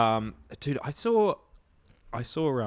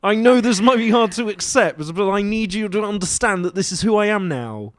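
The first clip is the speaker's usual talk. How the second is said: put-on British accent; 3 semitones higher than usual. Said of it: "you sound different".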